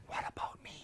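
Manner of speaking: soft comic whisper; whispered protest. Retold or imitated. Actor aside after director frets over the jeep, comic whisper.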